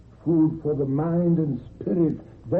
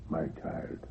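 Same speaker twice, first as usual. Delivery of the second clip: fading last words; 9 semitones lower, 10 dB quieter than usual. Acted. Dying grandfather's last words.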